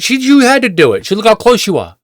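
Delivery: high-pitched imitation of an accuser; mock a woman pressing her blame; insistent accusation. Woman insists he scratched her car.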